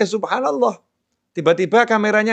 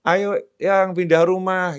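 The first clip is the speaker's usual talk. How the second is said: mild coaxing husband; slower than usual. Retold or imitated. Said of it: "Ngerayu istrinya".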